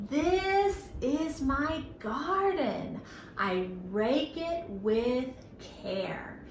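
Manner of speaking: slow, sing-song nursery rhyme; children's rhyme read out slowly; slow rhyme recital. Shown as a demonstration. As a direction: recite it slowly for little ones. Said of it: "this next little rhyme".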